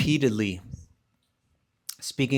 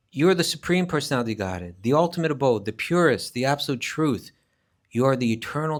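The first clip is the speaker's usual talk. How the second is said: emphatic proclamation; 3 semitones higher, 5 dB louder than usual. Acted. Teacher reading Arjuna's praise of Krishna, emphatic and loud. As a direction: proclaim it like Arjuna's confession of faith. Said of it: "he's emphatic".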